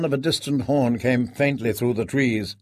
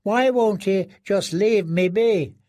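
higher, hopeless inner voice; despairing prisoner; 7 semitones higher, slower than usual. A narrator's reading. Prisoner dreading his master, higher and despairing. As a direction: ask it with no hope left.

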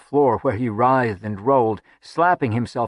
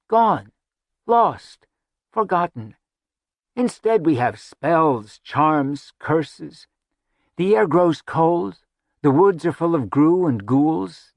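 rising, mournful declamation; dramatic lament; 4 semitones higher than usual. Acted. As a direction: mourn the lost glories.

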